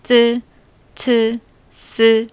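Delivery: 쯔 츠 스 short and tense; flat dental sounds. Shown as a demonstration. Teacher modeling short tense 쯔 츠 스. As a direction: clip them short and hard. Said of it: "짧고 된 소리로".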